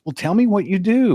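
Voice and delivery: a prim relative asking around the table; cousin's voice. Retold or imitated.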